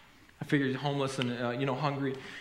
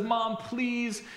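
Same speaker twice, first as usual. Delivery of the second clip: put-on higher, pleading kid's wheedle; begging child; 4 semitones higher than usual. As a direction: imitate a child pleading with mom. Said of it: "the child who begs and pleads".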